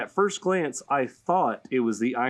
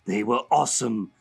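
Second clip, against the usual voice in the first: lightly raised comic villain voice; a hint of a playful villain reading a letter; Joker voice; 2 semitones higher than usual. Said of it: "I'm gonna say it in Joker's voice".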